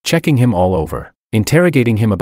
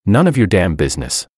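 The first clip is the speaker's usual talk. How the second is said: every word of "None of your damn business" said crisp and distinct; enunciated clearly. A narrator's reading. George to Willow, smirking, enunciating "None of your damn business" clearly. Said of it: "I smirked and enunciated clearly".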